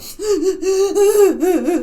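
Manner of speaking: high, loud retold sobbing; exaggerated boo-hoo sobs; mock crying. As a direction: re-enact sobbing in bed, laughing through it. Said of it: "I was crying".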